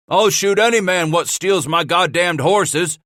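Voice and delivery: high, loud furious threat; angry threat. Acted. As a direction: shout it down in rage. Thieves arguing at the wall.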